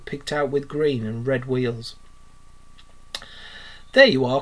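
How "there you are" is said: loud, proud announcement; a boastful loud cry; cried out. Acted. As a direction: show off the cart with a loud cry. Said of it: "cried Toad".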